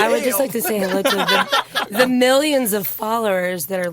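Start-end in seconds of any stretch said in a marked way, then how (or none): 0.0-1.1 raspy tired voice, laughing; smoker's rasp. Real, not acted. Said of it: "sound like I've been smoking since Nam".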